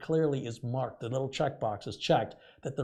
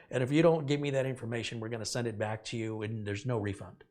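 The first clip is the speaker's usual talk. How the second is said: threatening. Retold or imitated. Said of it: "this is how she says hello".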